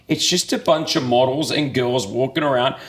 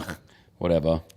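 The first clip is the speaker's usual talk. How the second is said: dismissive; 8 semitones lower, 4 dB quieter, faster than usual. Retold or imitated. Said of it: "I was like".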